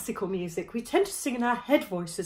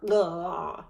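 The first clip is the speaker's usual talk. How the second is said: gargle-spot grunt. Shown as a demonstration. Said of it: "where you would gargle".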